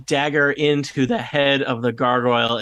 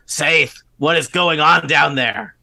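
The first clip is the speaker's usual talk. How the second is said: a voice calling down the stairs, slow and a bit louder; 3 semitones higher, 5 dB louder, slower than usual. Acted. Goblin upstairs calls down to the intruders below, slow and raised. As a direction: call down from upstairs, suspicious. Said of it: "hear a voice call out".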